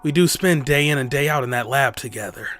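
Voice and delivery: lightly voiced hesitant man, pitched low; a hint of low, awkward acceptance; reluctant Osawa.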